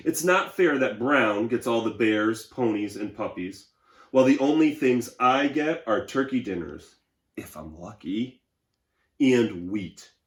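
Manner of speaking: aggrieved but proud beige crayon. Acted. Reads Beige Crayon's letter aloud.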